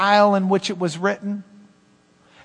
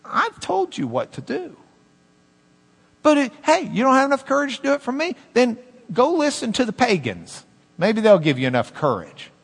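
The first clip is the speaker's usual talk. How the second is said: mock sarcastic God; 4 semitones higher than usual. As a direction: needle him gently, half-mocking. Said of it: "if God says to you".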